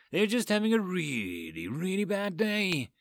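lightly voiced injured man catching his breath; dry wheeze to a worried girl; wheezing. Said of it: "Ethan wheezed".

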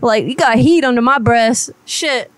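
a lightly voiced, brash, mouthy woman chewing out a caller; sassy furious prank-call woman. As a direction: play an angry, foul-mouthed single mom demanding her money. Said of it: "I just went full blown whatever that was".

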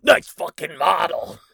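high, loud, drawn-out yell; slow, harsh shouted impression; screamed movie quote. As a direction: scream it as an acted Beetlejuice outburst. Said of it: "kicks down a tree and screams".

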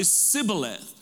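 Sibboleth with a plain s where sh belongs; imitating the mispronounced password, Sibboleth said with s. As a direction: start Sibboleth on s, as a dialect without sh would. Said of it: "they had no sh sound in their dialect".

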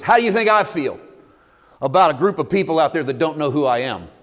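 loud, high, aching question; God's pleading cry. Acted. God asking Jonah how he feels, loud pleading cry. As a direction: cry out like a hurt father.

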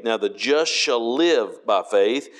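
slow, rising on the word live; stress on live. Shown as a demonstration. Preacher quoting Hebrews, stressing live. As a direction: lift and hold live. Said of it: "the emphasis is on the word live".

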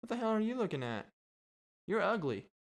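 high fast parrot sneer; rude parrot insult. Pretend. Parrot insults the park visitors, fast high sneering squawk. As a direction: spit the insult fast and high like a bratty bird. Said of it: "but just be like".

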